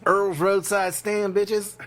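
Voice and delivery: slow, loud, high hick hype; southern redneck announcer. Pretend. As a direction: shout it like a roadside sign. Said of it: "He's got".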